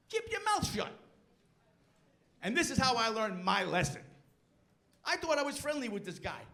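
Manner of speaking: ordinary delivery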